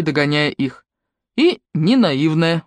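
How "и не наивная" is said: slow, gentle reassurance; consoling. Acted. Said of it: "утешил Макар".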